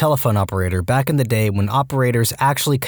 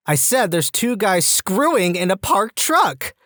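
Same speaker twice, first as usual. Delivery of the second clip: higher, drawn-out acted caller; caller speaking up; 7 semitones higher, slower than usual. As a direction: repeat it slowly in a raised pitch, spelling it out for the dispatcher. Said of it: "Could you please speak up?".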